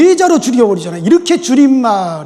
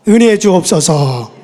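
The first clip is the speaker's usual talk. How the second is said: call to repeat; 2 semitones lower, 4 dB louder, slower than usual. Shown as a demonstration. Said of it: "따라합시다".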